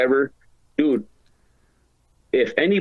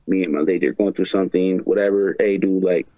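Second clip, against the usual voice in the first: retold heart-to-heart, pitched lower; low, mildly earnest confession to a buddy; sentimental confiding; 4 semitones lower than usual. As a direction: lightly act out confiding in a close friend, low. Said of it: "like, really sentimental".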